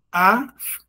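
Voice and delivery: "aftas" split as af... tas; long pause inside "aftas", after the f; divided into syllables. Shown as a demonstration. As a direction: say "aftas" in two pieces, af, then tas. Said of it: "vamos dividir a, as palavras aqui".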